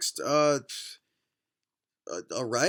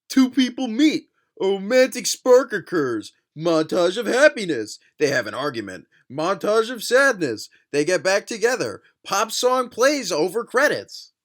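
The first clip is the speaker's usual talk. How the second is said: loud, punched-out list of beats; mock-dramatic reading; 3 semitones higher, 4 dB louder than usual. Reading out the book's rom-com formula, mock-dramatic. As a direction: announce each plot beat grandly.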